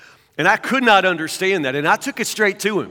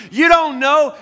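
preaching shout; 4 semitones higher, slower than usual. Acted. Preacher building to a climax.

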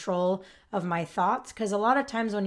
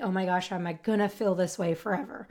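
anxious inner thought. Retold or imitated. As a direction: murmur it like a fearful private thought. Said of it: "I used to think".

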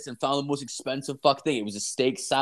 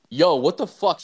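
louder, higher startled outburst; mock disbelief, pitched up; retold shock; 6 semitones higher, 6 dB louder than usual. Driver as date jumps in, retold startled shock. Reacts to woman jumping in car.

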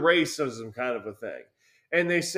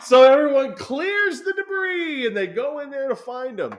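much higher, louder laugh spilling into words; laughing hard; 10 dB louder than usual. Real, not acted. Telling a friend the sad ending while laughing. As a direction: talk through the laughter.

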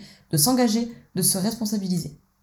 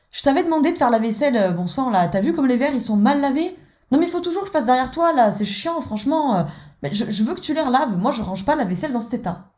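scolding husband; 4 semitones higher than usual. Acted. Husband scolds his wife over badly washed glasses, exasperated and higher. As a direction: nag like a fed-up parent over dirty glasses. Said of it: "Monsieur est dans l'archétype du parent normatif".

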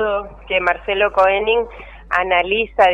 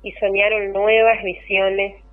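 poem reading. Acted. Poem read aloud on air.

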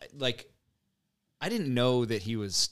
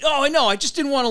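imitating Dave; 9 dB louder than usual. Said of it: "He goes".

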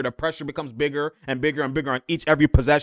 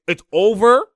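excited; 7 semitones higher, 9 dB louder than usual. Real, not acted. Excited point about the replay.

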